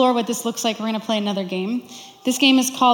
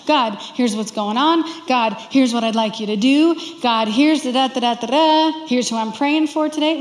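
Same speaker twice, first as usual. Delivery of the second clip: chatty rushed prayer; 2 semitones higher, 4 dB louder than usual. Retold or imitated. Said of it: "I'm that person who never lets the other one get a word in edgewise".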